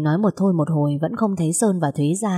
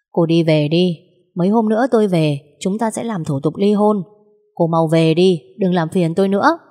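curt, louder dismissal, sending her away; cold dismissal; 3 dB louder than usual. Acted. Husband telling his wife to leave, curt and louder. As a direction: push her off with hard, louder words.

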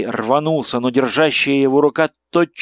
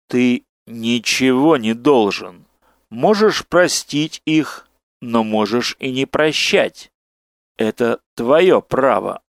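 slow inhuman voice. Acted. Monstrous figure addresses Gai.

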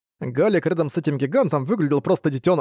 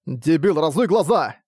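rude retort. Acted. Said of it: "грубо отозвался Арк".

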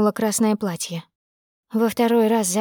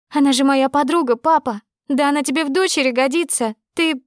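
furious reproach; 5 semitones higher than usual. Acted. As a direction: scream the accusation at papa. Daughter screams at father.

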